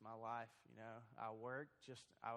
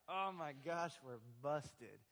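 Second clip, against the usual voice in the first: panicked; 3 semitones higher, 8 dB louder than usual. Retold or imitated. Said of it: "We're like".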